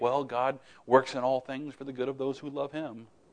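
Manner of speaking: put-on smug delivery. Quoting what people tend to say to someone grieving, mock-smug remark. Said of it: "we can tend to smugly say".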